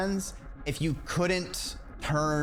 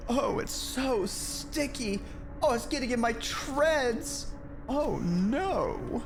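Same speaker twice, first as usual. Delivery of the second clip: higher, slow whiny robot; Robbie robot voice; 6 semitones higher, slower than usual. Acted. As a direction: whine like a sticky little robot. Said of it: "How are you making it sound?".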